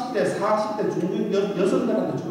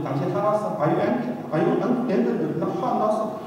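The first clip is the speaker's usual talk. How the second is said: foreigner asking. Retold or imitated. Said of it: "외국 사람들이".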